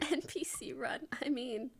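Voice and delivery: soft breathy whisper aside. Real, not acted. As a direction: whisper it with a laugh.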